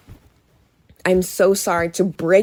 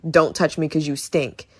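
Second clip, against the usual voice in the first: lower, matter-of-fact rejection; mock blunt disgust; 4 semitones lower, 3 dB quieter than usual. Imitating Ada telling Leon he stinks, bluntly disgusted. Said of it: "She's like".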